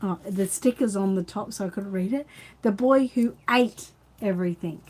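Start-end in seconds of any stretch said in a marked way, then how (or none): 2.6-4.8 announcing the title. Shown as a demonstration. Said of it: "the story today is called".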